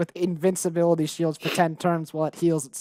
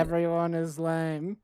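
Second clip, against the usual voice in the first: deadpan monotone; 4 dB quieter, slower than usual. Acted. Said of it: "I have this dead, monotonous voice".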